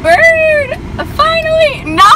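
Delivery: high, loud crying shout; panicked shriek. Real, not acted. Driver screaming as bird clings to car. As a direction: scream no in real terror. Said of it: "I'm scared".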